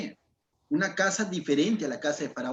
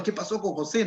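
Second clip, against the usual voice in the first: puzzled servants; 3 semitones higher than usual. Retold or imitated. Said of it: "me imagino sus mayordomos y todo diciendo".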